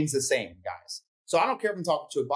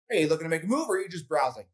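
rushed pitch; faster than usual. Shown as a demonstration. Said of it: "a different response in their tonality".

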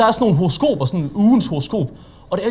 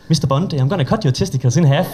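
put-on the Bond villain line in a mild Danish accent; a lightly voiced, harmless Danish take on the villain line. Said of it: "det kan du ikke lave med en dansk accent".

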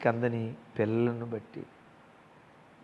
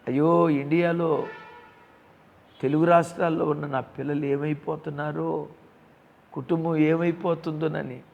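louder, higher mock lament of a worker abroad; worried lament; 4 semitones higher, 4 dB louder than usual. Worker abroad fretting over children in India, louder anguished cry. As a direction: cry out for the family back home. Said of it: "దూరదేశంలో ఉన్న నీవు".

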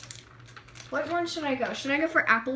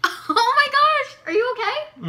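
laughing; 10 semitones higher, 7 dB louder than usual. Real, not acted. Friend eating sour candies.

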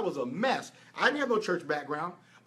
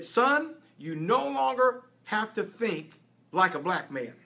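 lightly voiced God, slow and measured; a hint of a solemn divine voice, slower; God speaking gently to his son, slowly; slower than usual. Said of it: "He said".

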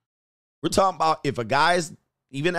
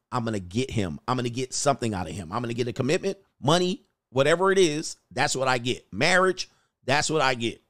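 scheming woman's thoughts; 3 semitones lower than usual. Retold or imitated. Woman thinking about what she gets from sex. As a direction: mutter the plan to herself. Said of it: "What they're getting from sex is".

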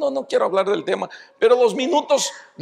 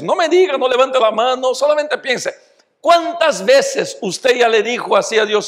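ordinary talk, nothing marked

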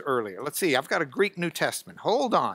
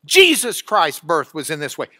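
"Jesus" punched louder, the rest falling away; dramatic emphasis; 3 semitones lower, 5 dB louder than usual. Shown as a demonstration. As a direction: hit "Jesus Christ's birth", then ease off. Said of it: "listen to the drama".

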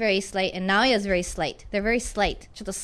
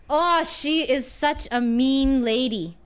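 slow, drawn-out oh, mock complaint; slow gossip setup; much slower than usual. Shown as a demonstration. Teacher sets up sarcasm with a slow complaint about a mean lady. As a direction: drag it out like a gossip. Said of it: "皮肉っぽい言い方".

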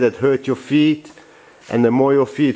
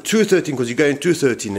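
retold shout; 3 semitones higher than usual. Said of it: "now he first shouted".

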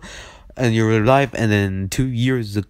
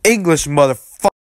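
angry demand; 5 semitones higher, 5 dB louder than usual. Acted.

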